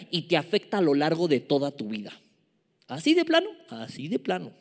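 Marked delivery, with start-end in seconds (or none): 2.9-3.5 high, rising, startled question; incredulous question. Acted. Pregunta incrédula que luego contesta. 3.7-4.5 softer, falling, settled answer; matter-of-fact confirmation. Acted. Respuesta seria a su propia pregunta.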